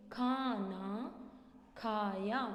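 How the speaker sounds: खाना drawn out slowly with a long aa; teacher modelling the correct खाना slowly; slow correct word. Shown as a demonstration. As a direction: stretch खाना so the long aa is clear. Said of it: "जैसे हमने".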